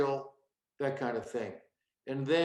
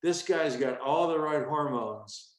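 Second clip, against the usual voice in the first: announcer intro. Shown as a demonstration. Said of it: "the introduction was".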